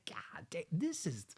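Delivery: hushed, breathy God damn; awed whisper. Retold or imitated. Reviewer reliving his awe at the film, whispered. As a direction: whisper it like the scene floored you.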